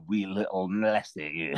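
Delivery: mock Scottish accent, slow; hammed-up Scottish lilt. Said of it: "I'll have to work on my Welsh accent".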